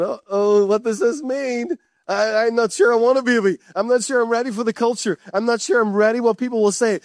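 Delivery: worried Mary. Acted. Mary voiced, anxious and unsure.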